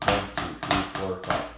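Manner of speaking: accented counting for the strong note. Shown as a demonstration. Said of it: "Your accent is a strong note".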